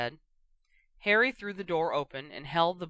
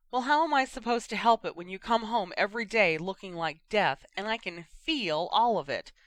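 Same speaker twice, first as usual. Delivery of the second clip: higher, heated outburst; passionate outburst; 4 semitones higher, 4 dB louder than usual. Acted. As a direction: burst out, fed up and hurt. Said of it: "she burst out in a passion".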